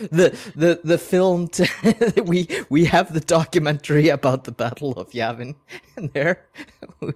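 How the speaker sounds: amused, laughter breaking into the line; laughing. Real, not acted. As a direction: chuckle your way through the words. Cracking up at own joke.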